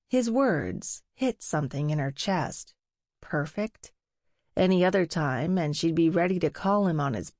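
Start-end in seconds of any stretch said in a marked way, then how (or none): 3.2-3.9 "Perfect?" softly with a questioning rise; doubtful question. A narrator's reading. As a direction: ask "Perfect?" quietly in disbelief. She doubts his compliment.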